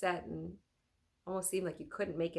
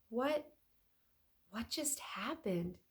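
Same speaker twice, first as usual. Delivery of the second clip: stammering; 4 semitones higher, slower than usual. Acted. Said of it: "he stammered".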